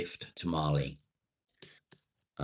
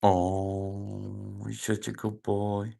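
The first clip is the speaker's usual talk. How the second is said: doting praise; much slower than usual. Real, not acted. Praising the dog.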